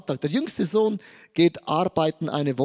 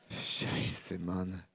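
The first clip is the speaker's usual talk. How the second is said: whispered aside; 12 semitones lower, 14 dB quieter than usual. Real, not acted. Joke about weak euro.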